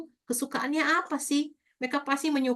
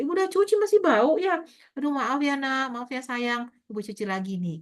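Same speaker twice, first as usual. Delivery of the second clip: higher, tender apology easing down; tender teacher apology; 4 semitones higher than usual. Retold or imitated. Teacher reassures child after smell remark, tender voice. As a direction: soothe the child gently. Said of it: "Kita sampaikan komunikasi ke anak-anak kita".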